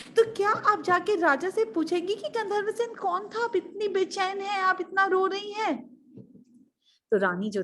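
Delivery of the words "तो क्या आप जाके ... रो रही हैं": high, pleading put-on voice; urging maid. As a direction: coax the restless queen anxiously. Maid urging distressed queen. (समझाती दासी की ऊँची आवाज़)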